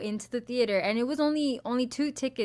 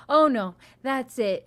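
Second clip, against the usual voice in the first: louder, slow retold huff; mock fed-up; 3 semitones higher, 6 dB louder than usual. Lady walking out of the movie, pissed. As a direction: act a pissed moviegoer giving up. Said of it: "walks out all pissed".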